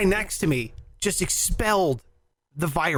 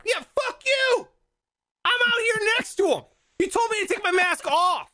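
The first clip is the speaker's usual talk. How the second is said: much higher, mock angry yelling; retold indignant outburst. Retelling yelling at the guardsman who recoiled, mock furious. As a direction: hurl it at the guardsman backing away. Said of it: "and I'm like".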